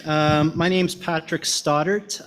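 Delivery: slow, deliberate self-introduction; slowly. Real, not acted. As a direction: spell out each word slowly. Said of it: "I'm saying that very slowly today".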